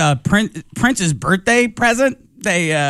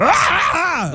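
high, hammed-up panicked scream; comic yell of horror; mock scream; 10 semitones higher than usual. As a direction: shriek as if caught red-handed, played for laughs. Acts out panic at being caught.

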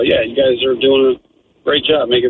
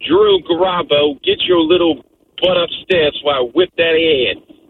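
put-on mother's Brooklyn accent; 2 semitones higher than usual. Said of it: "you had the old".

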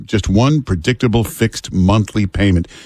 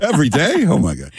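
high rising disbelief on Every day; can't believe it; shocked question; incredulous; 8 semitones higher than usual. Real, not acted. Incredulous reaction.

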